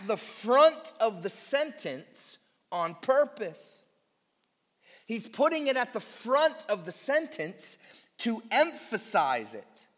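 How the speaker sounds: front said with weight, falling; stress on front. Shown as a demonstration. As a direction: punch front to make the point. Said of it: "that's called emphatic positioning".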